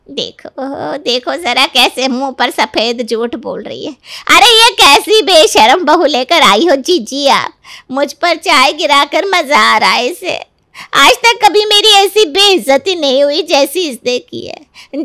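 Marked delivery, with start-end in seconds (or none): 4.3-15.0 indignant complaint. Acted. Aunt complains to sister-in-law.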